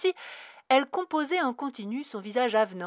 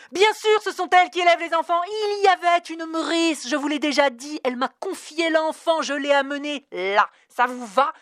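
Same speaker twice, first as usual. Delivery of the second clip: loud, high, biting sarcasm; mock the clerk's excuse with rage; sarcastic anger; 7 semitones higher, 8 dB louder than usual. Dana throwing the clerk's words back, furious sarcasm.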